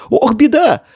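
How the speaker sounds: high «Ох, беда!» with stress on «беда», falling; dismayed gasp. A narrator's reading. Boy falls through the floor, high dismayed cry.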